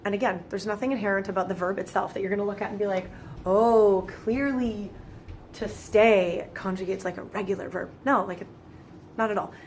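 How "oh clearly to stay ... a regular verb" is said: mock realization. Student pretending the verb rule is obvious, mock realization. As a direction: pretend it is all suddenly obvious.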